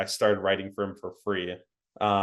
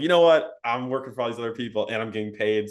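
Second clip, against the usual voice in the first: cocky; 4 dB louder than usual. Retold or imitated. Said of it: "I got cocky and I was like".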